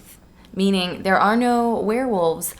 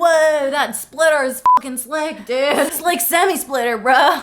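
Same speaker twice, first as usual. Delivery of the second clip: lightly voiced car bro. Jacob raving about Edward's car, bro voice. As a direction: lean into the bro voice.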